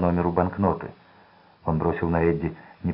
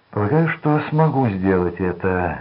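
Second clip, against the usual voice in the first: plain reading voice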